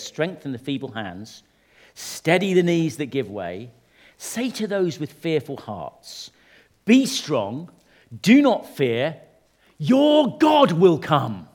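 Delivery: measured reading, building in force; Scripture reading. Real, not acted. Preacher reads the prophet to the fearful, solemn Scripture reading. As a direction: read it out in spaced phrases, swelling to the promise.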